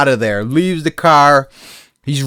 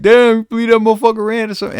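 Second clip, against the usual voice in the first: amazed friend; 10 semitones higher, much faster than usual. Retold or imitated. Friend voiced, fast.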